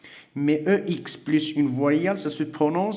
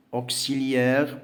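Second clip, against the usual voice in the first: slow model word; much slower than usual. Shown as a demonstration. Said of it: "au milieu du mot".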